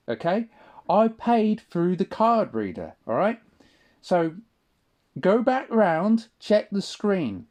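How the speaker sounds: reliving the row, losing his temper; angry retold reply. Telling the cashier to back off and check the screen, rising anger.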